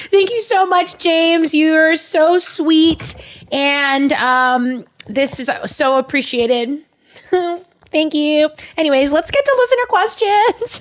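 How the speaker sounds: high, wobbly, tearful thanks; crying. Real, not acted. Thanking James for the Bible, really crying. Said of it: "Wait, are you crying?".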